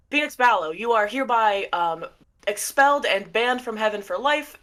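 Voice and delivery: lightly voiced stern angel herald; official pronouncement. Blue angel pronouncing banishment on Phoebe.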